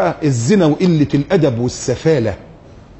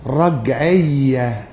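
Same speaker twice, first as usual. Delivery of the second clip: mock secularist sneer; much slower than usual. Mocking the secularist critics.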